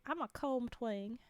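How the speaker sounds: slow, deliberate twang on "comb twang". Shown as a demonstration. Streamer showing viewers how to hear the pun, with a twang. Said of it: "I gotta say it with the twang".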